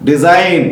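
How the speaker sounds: "డిజైన్" ending cleanly on N; silent G. Shown as a demonstration. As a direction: say "డిజైన్" with no G before the N. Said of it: "ఇక్కడ జీ పలకలేదు".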